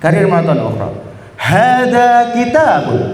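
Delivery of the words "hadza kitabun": slow, bright model line; the first take, less spirited; eager demo. Shown as a demonstration. Teacher's first take before asking for more spirit. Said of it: "Yang lebih semangat".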